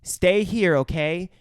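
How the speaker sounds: patient, measured mock instructions; talking to child. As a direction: speak as if to a small child. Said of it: "talking to him as if he's a fucking child".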